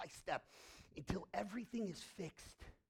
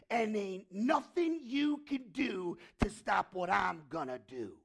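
showdown threat; 6 dB louder, slower than usual. Retold or imitated. Jesus confronts death, building from hushed to loud. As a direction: square up to death, slow and menacing to full force.

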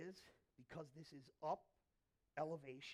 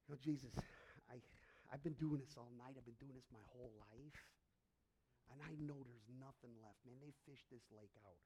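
1 weary fisherman; 5 semitones lower, 3 dB quieter than usual. Acted. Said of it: "He goes".

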